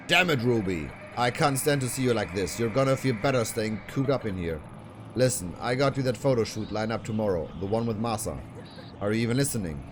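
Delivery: a hint of a harsh manager nagging his idol; lightly voiced manager. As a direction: scold her like a pushy talent manager. Voices the manager scolding Ruby.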